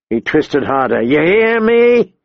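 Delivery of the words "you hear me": high, drawn-out, rising yell; angry escalated demand. A narrator's reading. Big man hurting the boy harder, angrily demanding. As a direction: stretch the question up into a yell.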